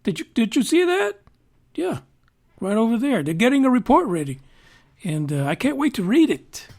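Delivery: a hint of a breezy, excited Obama; teasing impression of an eager ex-president; mock Obama. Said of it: "he's out there basically saying".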